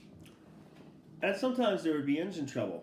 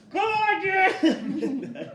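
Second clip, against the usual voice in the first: very high, loud Acadian French curse; Acadian French yell; 9 dB louder than usual. Retold or imitated. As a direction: roar it as the hammer flies. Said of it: "in his Acadian French accent, he would yell".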